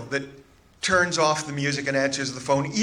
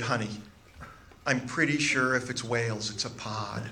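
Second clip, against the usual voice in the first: softer, condescending patience; forced patience; 3 semitones lower, 7 dB quieter than usual. Retold or imitated. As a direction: talk down gently, like correcting a small child. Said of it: "tone of forced patience and condescension".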